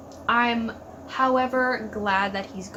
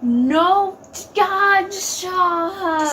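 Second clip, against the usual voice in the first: loud protest; 8 semitones higher, 6 dB louder, much slower than usual. Real, not acted. Yelling at show on screen.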